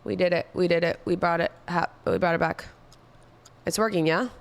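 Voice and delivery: talking while chewing gum. Real, not acted. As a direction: smack gum between words. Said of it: "sorry about the gum chewing A S M R".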